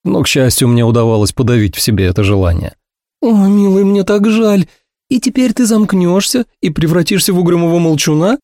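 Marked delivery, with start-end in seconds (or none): 3.2-8.4 high, pitying woman's voice; much higher, sugary sympathy; sorry Ursula. A narrator's reading. Ursula pitying her gloomy friend, high and sugary.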